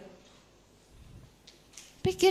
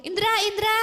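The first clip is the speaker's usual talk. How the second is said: calling out; 9 semitones higher than usual. Acted. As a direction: call a name to get someone's attention. Calling names on the street.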